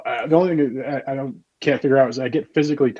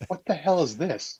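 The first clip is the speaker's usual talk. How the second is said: slow, higher baffled question; mock bafflement; 4 semitones higher, 6 dB quieter, slower than usual. Co-host corrects the impression of himself, mock baffled. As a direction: draw it out in mock disbelief. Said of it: "it's more like".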